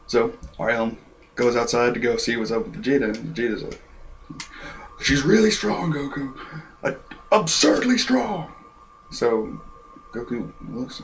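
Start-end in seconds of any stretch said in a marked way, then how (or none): 5.0-8.5 high-pitched, stretched-out warning; mock strained warning. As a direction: stress how strong she is, dragging the end. Voices Vegeta warning Goku.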